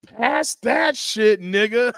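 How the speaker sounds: slow drawn-out movie line; Marlon quote. Retold or imitated. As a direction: draw out the quote like the dying character. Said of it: "What did Marlon say?".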